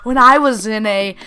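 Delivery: imitating a mom telling her own breakup story; mock mom voice. Mom consoling her daughter after the breakup, lightly mocked. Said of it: "exactly what her mom would say".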